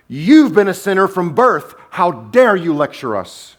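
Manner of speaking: hammed-up indignation; indignant rebuke. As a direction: scold him as an affronted leader. Pharisees rebuke the man.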